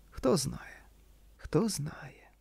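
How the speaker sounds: soft whispered murmur; murmured with a sigh. A narrator's reading. Wife murmurs tenderly to husband, whispered with a sigh. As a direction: breathe it out gently with a sigh. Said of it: "пробурмотіла Ліз з ніжним зітханням".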